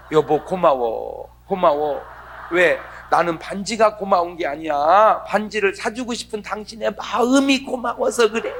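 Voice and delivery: a touch of tenderness in the thanks; grateful wife. Retold or imitated. Wife's ideal thank-you, acted.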